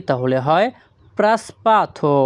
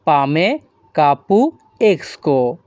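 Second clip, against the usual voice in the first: slow demo. Shown as a demonstration. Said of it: "তখন আমাদের বলতে হবে কি?".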